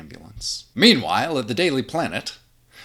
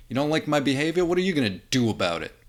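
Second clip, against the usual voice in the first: loud, higher bully challenge; tough guy taunting; 6 semitones higher, 5 dB louder, much faster than usual. Acted. Tough guy taunting Clark in the diner, loud. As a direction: taunt him into a fight.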